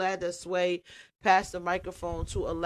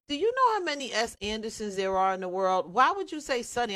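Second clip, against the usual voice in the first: incredulous disbelief; 5 semitones higher, faster than usual. Retold or imitated. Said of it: "I was like".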